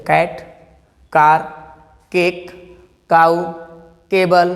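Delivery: कैट, कार, केक, काऊ, केबल one at a time with clear 'k'; hard c as 'k'. Shown as a demonstration. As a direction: pause between words, each starting on 'k'. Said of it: "सी को हमेशा क पढ़ेंगे।". (कैट, कार, केक, काऊ, केबल में साफ़ क)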